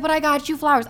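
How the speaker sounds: imitating the date's whiny protest; mock whine. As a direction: parody him pleading. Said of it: "He was like".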